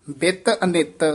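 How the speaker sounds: ਬਿਤ ਅਨਿਤ falling, then a small catch; brief thamak after ਅਨਿਤ; slight halt after ਅਨਿਤ. Shown as a demonstration. Teacher shows a brief thamak after ਅਨਿਤ. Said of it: "ਇੱਥੇ ਠਮਕ".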